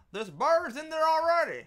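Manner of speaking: sudden high gasp, loud and amazed; gasping surprise. Real, not acted. Streamer spotting birds in the store, gasping surprised. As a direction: gasp and shout it out in shock.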